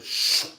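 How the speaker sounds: a light mock rocket hiss; imitated hiss. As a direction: hiss it out like a fuse. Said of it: "all of a sudden I heard".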